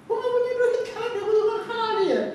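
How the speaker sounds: high, laughing protest; laughing stranger refusing. Retold or imitated. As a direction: laugh it off, pleading broke. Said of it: "Orangnya nggak mau".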